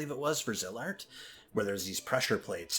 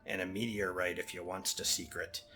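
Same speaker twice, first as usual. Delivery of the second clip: put-on Jamaican accent. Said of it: "slipping into, like, Jamaican".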